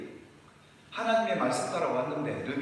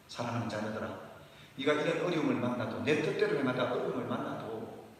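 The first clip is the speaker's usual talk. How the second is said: softer, lower tender plea; voicing God tenderly; 5 semitones lower, 4 dB quieter than usual. Pastor voicing God pleading with his children, soft and tender. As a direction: speak as a loving father to his children. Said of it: "이건 아니었겠습니까?".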